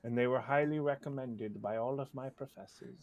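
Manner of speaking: lightly put-on cultured voice; trying to sound sophisticated. Writer recalling short stories to the hosts, mock sophisticated. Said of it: "I was trying to sound sophisticated".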